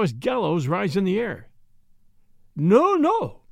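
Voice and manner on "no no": high, loud panicked cry; crying out in horror. Acted. Jan cries out in horror at the gallows rising. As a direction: shout it in sudden terror. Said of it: "he cried".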